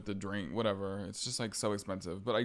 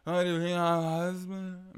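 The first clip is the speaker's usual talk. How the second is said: slurred mock British accent, pitched up; drunk British accent; 7 semitones higher than usual. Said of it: "Slurring her shit and talking in a British accent".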